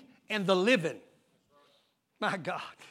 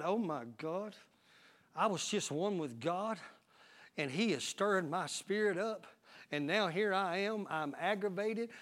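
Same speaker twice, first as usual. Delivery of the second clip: low, much softer acted self-talk; hushed realization; 4 semitones lower, 10 dB quieter than usual. Preacher voicing a believer who spots the red flag, hushed realization. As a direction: drop down soft and low, as if it just dawned on you.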